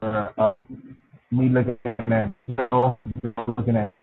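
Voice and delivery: slow, stretched-out broken audio; radio breaking up. Real, not acted. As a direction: call cutting in and out. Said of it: "We're losing you again".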